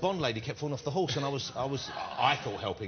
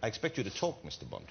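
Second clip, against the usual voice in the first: Bond villain voice; 4 dB quieter than usual. Pretend. Host plays a Bond villain.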